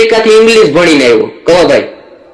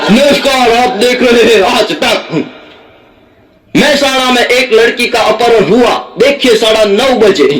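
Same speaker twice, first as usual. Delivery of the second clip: news anchor; 5 semitones higher than usual. Retold or imitated. Mocking the Aaj Tak anchor introducing the kidnapping story, formal Hindi news read. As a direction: announce it like a breaking-news anchor. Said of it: "Umeshbhai આવ્યા".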